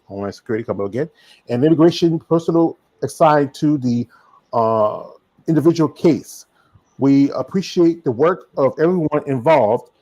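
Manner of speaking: reading a statement. Acted. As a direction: read the letter out formally. Reads a statement aloud.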